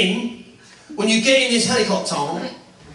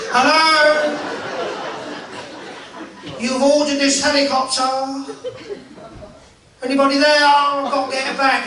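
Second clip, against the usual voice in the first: calling out; 4 semitones higher than usual. Acted. Pilot calls out for farmer.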